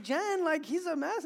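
loud, high-pitched protest, acted out; exasperated complaint. Dad to his wife about the messy son, exasperated. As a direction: complain to your wife in mock dismay.

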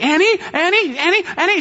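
high calling out for Annie; calling the dog. Retold or imitated. Wife calling after the runaway dog, high-pitched call. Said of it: "She's calling for Annie".

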